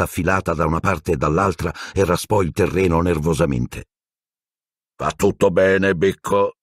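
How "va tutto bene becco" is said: gently. A narrator's reading. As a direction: soothe a nervous animal. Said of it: "disse Hagrid dolcemente".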